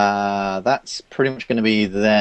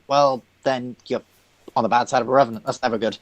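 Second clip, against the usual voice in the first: Cathaniel; 3 semitones higher, faster than usual. Acted. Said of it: "that's all he says".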